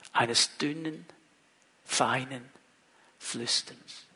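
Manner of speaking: a hushed whisper for the small voice. Shown as a demonstration. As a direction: drop into a whisper on the repeat.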